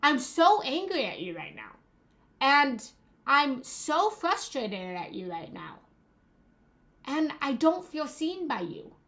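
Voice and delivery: mildly heated accusatory venting. Shown as a demonstration. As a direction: blurt it out while storming around the room. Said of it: "if you're going around and say".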